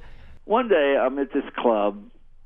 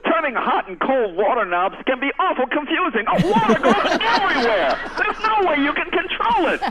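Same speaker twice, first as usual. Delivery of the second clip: higher, mock-dramatic infomercial pitch; 11 semitones higher than usual. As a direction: play up the clumsy-ad disaster. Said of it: "my favorite thing about those infomercials".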